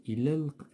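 إلى الق- glided together as "ila-l-q", no glottal stop; skipped hamza. Shown as a demonstration. Teacher showing how we skip it, إلى الق- linked directly. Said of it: "بحال كنقزوها لا ننطقها".

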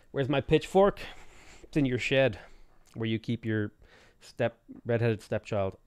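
put-on rural southern American accent; bad American accent. Streamer joking about pitchfork and shed, bad American accent. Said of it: "One bad American accent is okay".

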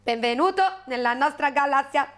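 lightly voiced alien welcome; Ioti aliens. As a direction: welcome the visitor in an even alien voice. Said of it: "dissero gli Ioti".

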